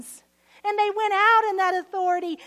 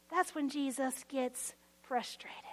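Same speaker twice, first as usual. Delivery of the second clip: hushed whisper; 5 semitones lower, 11 dB quieter than usual. Real, not acted. Sermon point dropped to hush.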